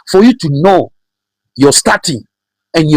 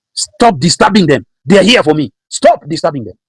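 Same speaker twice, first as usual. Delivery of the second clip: raised-pitch, insistent order; commanding Pharaoh; 5 semitones higher than usual. Acted. Pharaoh ordering Moses, acted quote.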